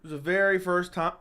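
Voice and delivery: hiccup breaking the word. Real, not acted. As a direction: cut off by a hiccup. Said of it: "Hiccups on stream".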